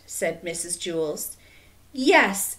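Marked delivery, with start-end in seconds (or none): 1.9-2.6 loud, higher burst of agreement; exclaiming. A narrator's reading. Stephen agreeing with his teacher, loud exclamation. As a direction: exclaim it at full voice. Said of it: "exclaimed Stephen".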